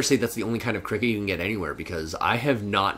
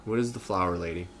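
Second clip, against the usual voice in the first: whispering. Real, not acted. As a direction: whisper it conspiratorially. Whispered exchange.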